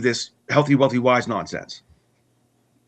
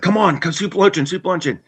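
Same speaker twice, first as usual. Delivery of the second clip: higher, pleading come-along to the luncheon; eager coaxing; 7 semitones higher than usual. Retold or imitated. Drinking buddy urging him to the soup luncheon, eager and high.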